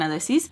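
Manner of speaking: "Alexis" said as "ah-leh-SEES"; "Alexis" without the x, ending "sees"; copied pronunciation. Shown as a demonstration. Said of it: "they hear Mister Peach".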